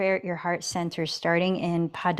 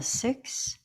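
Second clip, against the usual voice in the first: whispered count on the breath; ocean throat breathing; 6 semitones higher, 6 dB quieter than usual. Acted. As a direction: breathe the word out through a narrowed throat. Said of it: "hear the whisper in your breath".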